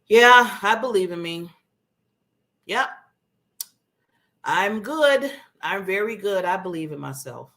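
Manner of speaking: low, half-hearted self-talk; low, unsure reassurance to yourself; unconvinced. Shown as a demonstration. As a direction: recite it as if told to say it. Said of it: "does it sound like somebody told me to say that?".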